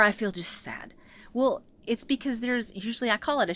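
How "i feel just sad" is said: mock sad whisper.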